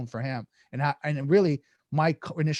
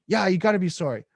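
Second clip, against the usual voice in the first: indignant retort; 4 semitones higher, 4 dB louder than usual. Acted. Acted reply from triggered Eugene.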